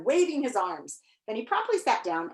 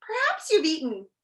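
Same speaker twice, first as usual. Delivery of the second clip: put-on mildly concerned, higher young voice; sympathetic; 6 semitones higher than usual. A narrator's reading. Milo consoling the overfed Humbug, sympathetically. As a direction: offer it with gentle sympathy. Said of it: "Milo remarked sympathetically".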